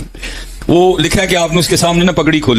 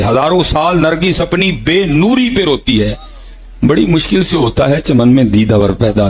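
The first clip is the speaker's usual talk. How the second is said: poetic recitation; slower than usual. Acted. Preacher recites a famous couplet.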